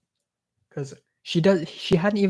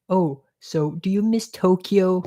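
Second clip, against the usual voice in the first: mock host question; 4 semitones higher than usual. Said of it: "she thought I was Japanese".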